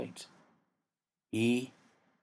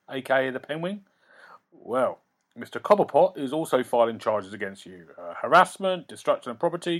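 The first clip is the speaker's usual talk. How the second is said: a hint of the nervous lawyer; 2 semitones higher than usual. Lawyer continues.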